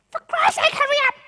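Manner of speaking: loud, high impatient outburst; impatient visual. Retold or imitated. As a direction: hurry them up in exasperation. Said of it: "The visual's going".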